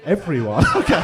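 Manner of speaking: loud high "Everyone?" then laughing "Okay"; amazed at the whole crowd; astonished, laughing; mock surprise. Real, not acted. Crowd all cheers.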